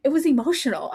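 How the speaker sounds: hushed, breathy emotion; whispered. Real, not acted. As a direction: whisper it as if choked up. Overcome by the scene.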